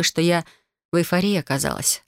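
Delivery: plain reading voice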